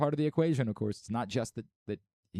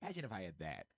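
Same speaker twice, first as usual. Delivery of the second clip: very soft, low murmur; awed envy; 5 semitones lower, 13 dB quieter, faster than usual. Acted. Host recalling hearing the announcer's voice, hushed awe. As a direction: drop right down in envious awe. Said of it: "I'm like".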